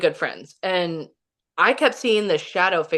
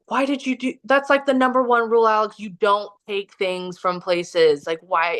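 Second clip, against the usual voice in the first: higher-pitched retold scolding from a friend; a mild mock rebuke over breaking the number one rule; upset scolding; 3 semitones higher than usual. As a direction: replay his exasperated telling-off, pitched up. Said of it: "he got really upset".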